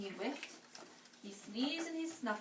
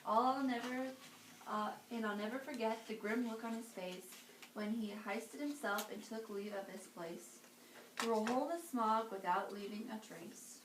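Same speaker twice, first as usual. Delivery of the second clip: put-on lively read-aloud for children; storybook reading. A narrator's reading. Reading to kids, lively storybook voice. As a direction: read it like bedtime story time.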